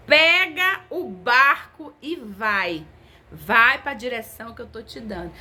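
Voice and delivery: slow, emphatic divine order; drawn-out preacher's command; commanding proclamation. Retold or imitated. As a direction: proclaim each word as a command.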